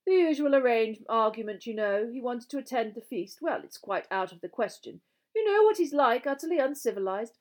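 high, loud, fussy gentleman ghost; ghostly gentleman. Acted. House ghost comments on the new pupils, high hopeful voice.

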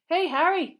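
high, loud excited call; excited schoolboy. Acted. Seamus hails Harry with news, excited. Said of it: "who looked excited".

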